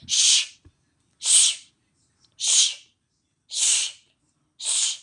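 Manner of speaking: unvoiced shh; shushing. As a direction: hush someone sharply. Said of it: "family members are like".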